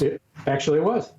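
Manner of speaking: mock high falsetto. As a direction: squeak it up high. Teasing high voice exchange.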